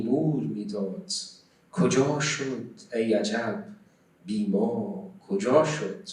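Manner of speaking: measured Persian verse recitation, voice carried out loud; loud, deliberate poem reading; poetry recitation. Acted. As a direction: recite the verse line by line with long held vowels and pauses.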